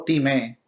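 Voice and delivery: "timé" stressed on the final é; acento en la E. Shown as a demonstration. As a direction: say "timé" slowly, landing on the last syllable. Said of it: "con acento en la E". («timé» con acento en la e final)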